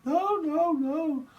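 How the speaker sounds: very high yapping no-no-no; yapping dog. Pretend. A little dog yapping no over and over, very high. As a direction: bark it out like a small excited dog. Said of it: "Like a dog going".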